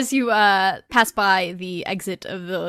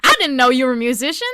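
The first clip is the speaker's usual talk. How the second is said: put-on Southern accent; 6 semitones higher, 10 dB louder, much faster than usual. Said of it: "all of the knights are Southern now".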